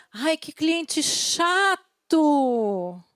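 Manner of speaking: slow, dragged-out whine; mock complaining. Trainer mimics a staffer grumbling about a client, slow whine. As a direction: drawl it like a fed-up employee. Não tem cliente chato.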